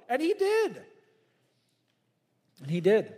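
high, loud ringing declaration; emphatic preaching. Acted. Preacher to congregation, loud high declaration. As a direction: proclaim it with full force.

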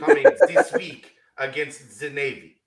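put-on terrible German accent. Co-host teases about the lineup change in a botched German accent. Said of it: "is that your attempt at a terrible German accent".

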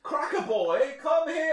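high squeaky cartoon voice; silly high voice. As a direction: call out in a goofy high voice. Calling a cracker character.

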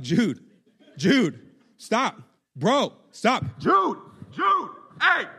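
building from loud call to high shout; acted parental yell, escalating in pitch; retold yelling. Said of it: "I start having to yell at him".

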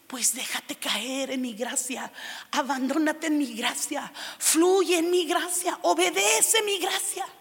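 slow, tender invitation; tender voice of God. Retold or imitated. God to the young believer, slow and tender. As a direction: slowly coax her into trusting.

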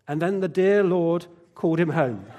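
a hint of a holy tone, lightly done; mock-pious, as if reading a eulogy. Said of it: "says in a very pious voice".

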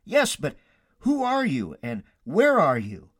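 lightly acted high-pitched questioning; a touch of urgent bewilderment; stranded man. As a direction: call up, puzzled and anxious. Stranded Jack questions the unseen voice.

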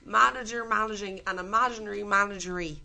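loud put-on D4 accent; lightly posh Dublin D4 recital. Contestant reading a tongue twister aloud in a loud D4 accent. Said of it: "Do I do the deep accent again?".

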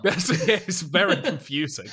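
put-on Russian narrator accent; mock Soviet accent. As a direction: play a confused Russian narrator. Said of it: "would not make a good Soviet narrator".

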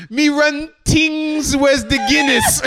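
high, slow, muddled Irish-Caribbean voice; hammed-up Irish accent gone Caribbean; botched Irish accent. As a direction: shout a hopelessly bad Irish impression. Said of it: "Oh, the Irishman is here".

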